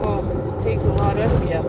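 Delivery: talking while bouncing on a rough road; on a bumpy road. Real, not acted. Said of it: "Sorry, the road is very bumpy, guys. You can probably hear it".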